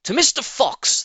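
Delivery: high, loud group shout. Acted. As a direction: roar the toast together. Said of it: "they all shouted".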